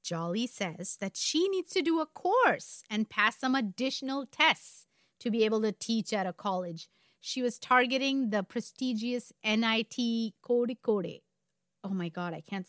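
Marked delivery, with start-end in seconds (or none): 0.0-11.2 measured, emphatic storyteller; story narration. A narrator's reading. Co-host telling a true crime story, story narration. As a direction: pace it out, leaning on key words.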